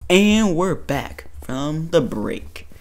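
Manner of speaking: mock announcer.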